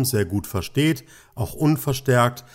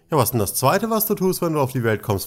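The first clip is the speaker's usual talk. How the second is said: spöttisch gedehnte Frage, bei „was“ deutlich höher einsetzend; ein bisschen zynisch; 4 semitones higher, faster than usual. Retold or imitated. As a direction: frag es mit leicht zynischem Unterton, als wäre die Antwort offensichtlich. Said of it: "frag ich dann immer ein bisschen zynisch". (leicht zynisch nachgefragt)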